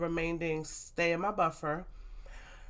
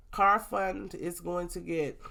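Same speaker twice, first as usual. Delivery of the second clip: congested, stuffy-nosed voice; slower than usual. Real, not acted. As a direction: talk through a congested nose. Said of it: "I don't know why I sound so congested".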